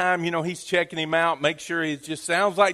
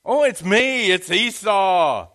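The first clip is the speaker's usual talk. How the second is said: mild deceiving son; 4 semitones higher, 7 dB louder, slower than usual. Acted. Jacob lies to his father.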